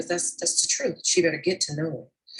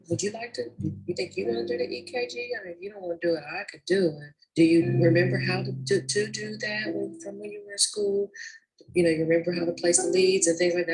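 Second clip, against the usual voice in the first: gentle suggestion. Shown as a demonstration. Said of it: "So I say things more like".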